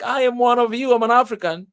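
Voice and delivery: re-enacted earnest insistence; insistent protest. Retelling his protest at being excluded.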